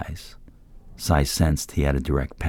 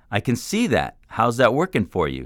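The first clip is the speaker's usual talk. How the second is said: yelling back; 8 semitones higher than usual. A narrator's reading. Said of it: "Sai yelled back".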